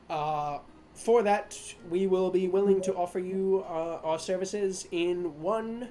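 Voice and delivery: lightly Australian-Kiwi gnome, offering slowly; Australian accent. Acted. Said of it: "Australian slash Kiwi accents".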